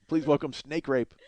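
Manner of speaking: slow, unassuming intro of a wrestler; flat announcement. Shown as a demonstration. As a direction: announce it plainly and slowly. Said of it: "Nobody says, "Please welcome".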